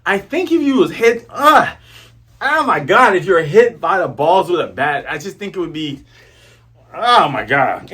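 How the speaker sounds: shocked wince. Retold or imitated. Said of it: "So Django's like".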